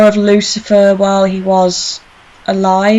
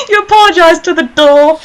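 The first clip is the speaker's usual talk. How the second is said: amused, higher and laughing; 7 semitones higher than usual. Real, not acted. Host teasing a friend about apologizing to doors, laughing. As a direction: giggle through it.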